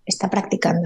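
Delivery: a soft murmured "Está practicando" to herself; hushed inner mantra; quiet self-reminder. Shown as a demonstration. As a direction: say "Está practicando" under your breath. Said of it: "me ayuda mucho pensar".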